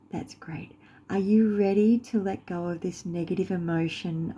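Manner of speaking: soft, reassuring meditation guide; guided meditation. Acted. Guide asks an anxious follower to close eyes, gentle meditation voice. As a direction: gently coax them along, leaving long pauses.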